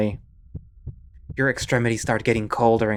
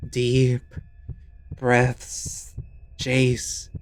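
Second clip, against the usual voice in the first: soothing voice; much slower than usual. Acted. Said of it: "A soothing voice echoes".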